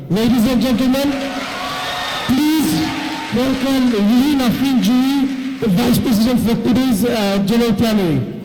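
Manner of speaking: calling out the guest's name. Real, not acted. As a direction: announce her big, to the whole hall. Announcing the vice president on stage.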